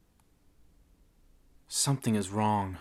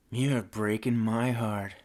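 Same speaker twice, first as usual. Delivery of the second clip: slow, dry sneer; slower than usual. Acted. Masked man answering Mary Ann's plea, sneering. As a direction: sneer it slowly, unmoved. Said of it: "The man sneered under his bizarre".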